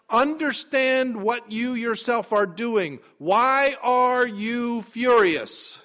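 loud, high, urgent rebuke; stern confrontation. Acted. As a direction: press him hard to face himself. Preacher voicing God's confrontation.

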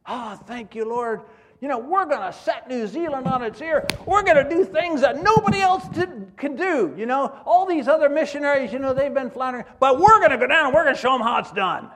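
high, loud hammed-up bragging; imitating a cocky missionary's loud boast; mock boast. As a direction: play your overconfident younger self. Retelling his own early arrogance.

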